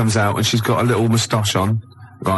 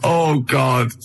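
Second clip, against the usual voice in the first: helpless laughter; laughing; 4 semitones higher, slower than usual. Real, not acted. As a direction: laugh through the words. Laughing at picture.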